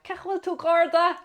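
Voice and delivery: high, loud, slow call across the street; hollering a greeting across to the local guard; roared greeting in Irish. Retold or imitated. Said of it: "someone roared across to me in Irish".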